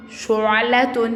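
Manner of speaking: شعلة slowly as "shu'-la-tun"; drawn-out damma word. Shown as a demonstration. Teacher repeats the damma word for pupils, drawn-out شعلة. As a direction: stretch each syllable of شعلة, ending fully voiced. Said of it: "عليه ضمة شو".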